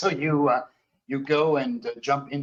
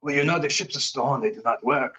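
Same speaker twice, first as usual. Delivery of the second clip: put-on confiding French Canadian accent; faster than usual. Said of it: "French Canadian, uh, voice".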